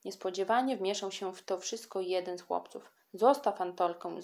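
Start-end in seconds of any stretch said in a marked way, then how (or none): 3.1-4.2 a firm call, mildly raised; a boy calls on Kasia to let Antolka go. Acted. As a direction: step in to stop her. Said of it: "zawołał".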